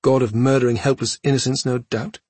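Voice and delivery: fast snarling taunt. Acted. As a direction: spit it out angrily. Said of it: "Cha snarled".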